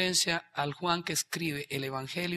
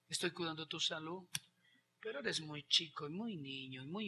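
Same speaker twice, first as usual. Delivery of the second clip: tender father; 3 semitones lower, 12 dB quieter than usual. Acted. Father answers gently.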